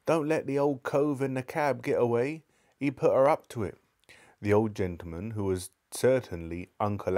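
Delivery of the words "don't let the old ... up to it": high calling out from the crowd; called out. Acted. Voice in the crowd calling out, high and urgent. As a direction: call over the crowd's noise. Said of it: "someone else called out".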